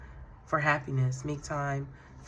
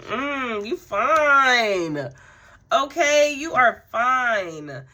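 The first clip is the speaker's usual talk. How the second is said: much higher and louder, teasing admiration; flirty hype; 8 semitones higher, 11 dB louder, much slower than usual. Real, not acted. Tarot reader hyping the King of Wands card for viewers, higher and louder with flirty excitement. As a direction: gush over the card like catcalling a fine man.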